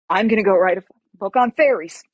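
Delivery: firm declaration. Retold or imitated. Patient announcing her new career plan, firmly. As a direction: declare it with punch.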